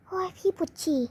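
soft, whining plea; whiny complaint. Acted. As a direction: moan it like you can't hold it. Older sister desperate to pee. (พี่บ่นครางว่าปวดฉี่)

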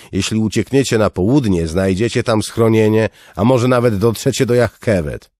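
loud, high, urgent plea; pleading guard captain. Acted. Captain of the guard to the refugees, loud and urgent. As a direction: make the crowd understand.

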